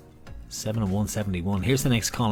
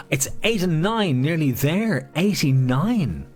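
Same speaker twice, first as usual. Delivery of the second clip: excited bingo call; 6 semitones higher, 4 dB louder, slower than usual. Acted. Building excitement calling.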